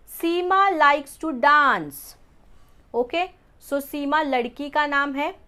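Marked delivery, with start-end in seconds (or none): 0.1-2.2 word by word, slow and clear; slow read-out. Shown as a demonstration. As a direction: read the sentence out slowly for students. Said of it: "दूसरा sentence है". (धीरे-धीरे साफ़ पढ़ना)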